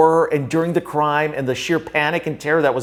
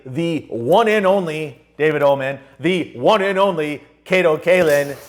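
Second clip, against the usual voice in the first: slow, announcer-style "the one and only"; emphatic introduction. Acted. Host introducing both guests at the show's end, announcer hype. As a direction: hype the names like a ring announcer. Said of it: "I don't think I could say more emphatically".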